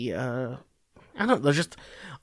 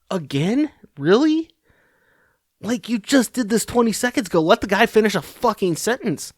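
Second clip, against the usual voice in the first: higher, incredulous mock complaint; exasperated Harris; 6 semitones higher than usual. Harris to Pelosi, fed up with clapping, exasperated. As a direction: roll your eyes at the endless clapping.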